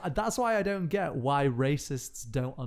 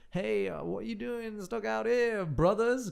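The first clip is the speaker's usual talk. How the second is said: friendly redneck drawl; 8 semitones higher, slower than usual. Retold or imitated. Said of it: "but he goes".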